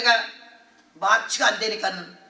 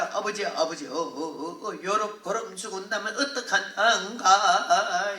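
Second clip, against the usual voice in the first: tearful Jeolla prayer. Retold or imitated. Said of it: "얼마나 울면서 이래요. 전라도 사투리로".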